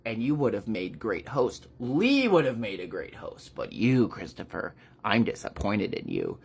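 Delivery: lightly voiced villain, disappointed; measured, dropping low at the end; Pestilence. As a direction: let down an unworthy opponent, lightly acted. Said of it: "Pestilence is just like".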